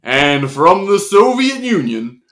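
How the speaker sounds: announcer. Acted. Announcer continues.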